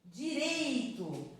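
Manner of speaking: "Direito" slow, with a high, stretched "rei"; stress on REI. Shown as a demonstration. Teacher comparing tonic syllables, slow stressed "Direito". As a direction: draw out the middle syllable of "Direito". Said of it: "Igual que nós vimos lá no outro".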